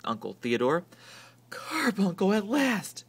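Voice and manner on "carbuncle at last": breathed. A narrator's reading. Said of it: "breathed Aunt Figgy".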